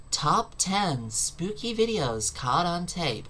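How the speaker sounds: slow, hammed-up trailer-announcer read of a video title; a light parody of a dramatic US video host; mildly overdone announcer, slowed right down; mock American announcer. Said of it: "In America, it's like".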